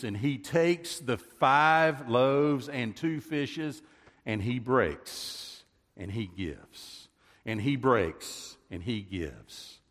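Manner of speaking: slow, measured, each action weighed; preacher dwelling on the bread, slow and solemn; solemn slow preaching. Acted. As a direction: let the breaking and giving sink in.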